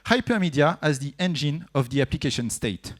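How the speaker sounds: English words in a jokey English accent; French speaker putting on an English accent for the acronym; self-mocking English accent. Shown as a demonstration. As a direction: show off a mock English accent, tongue in cheek. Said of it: "avec mon super accent".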